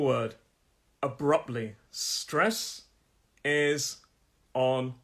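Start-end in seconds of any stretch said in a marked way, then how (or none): 1.9-4.9 hoarse, fading voice; strained voice running out; losing voice. Real, not acted. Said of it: "Sorry, I'm losing my voice".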